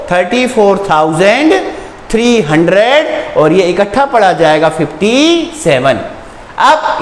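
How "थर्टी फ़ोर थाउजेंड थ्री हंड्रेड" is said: slow read-out. Shown as a demonstration. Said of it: "total मिलके पढ़ेंगे हम इसको".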